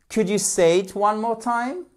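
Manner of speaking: high, cheery question with a rising end; good-humoured, high teacher voice; joyful. Shown as a demonstration. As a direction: lead a playful repeat drill. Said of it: "in a joyful atmosphere".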